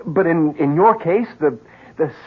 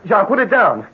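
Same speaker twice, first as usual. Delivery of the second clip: urgent raised plea. Acted. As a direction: call his name hard to make him stop. Pleading with armed friend.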